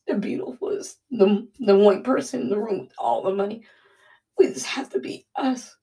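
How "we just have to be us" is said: whispered through a sob; crying. Real, not acted. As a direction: let the tears break the line. Speaker crying during devotional.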